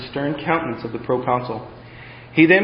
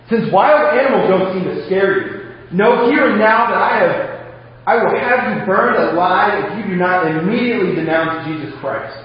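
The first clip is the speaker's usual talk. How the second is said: mocking threat; 4 semitones higher than usual. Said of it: "He laughed back".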